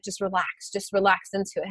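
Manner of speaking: soft, calm coaxing voice; soothing trainer. Retold or imitated. Trainer soothing her through the shaking, softly. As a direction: ease someone through it gently. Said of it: "one of the trainers comes by and she's like".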